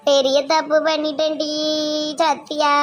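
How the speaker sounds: acted sobbing regret; crying out to a friend; tearful confession. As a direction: confess through staged tears. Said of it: "அழாதீங்க, யாரும் அடிக்க மாட்டாங்க".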